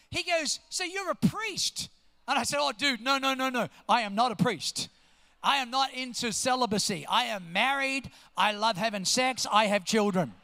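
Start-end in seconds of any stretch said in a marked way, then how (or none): 0.7-1.9 slow, high questioning guess; puzzled guess. Retold or imitated. Gas attendant guessing at the pastor's job, puzzled. Retelling man's mistaken guess. 2.6-10.3 firm comic protest, building louder to the end; emphatic denial. Retold or imitated. Pastor telling gas attendant he's no priest, emphatic denial.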